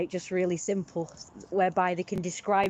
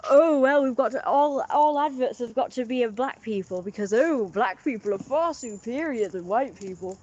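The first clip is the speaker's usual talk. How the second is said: mock preachy; 4 semitones higher, 3 dB louder than usual.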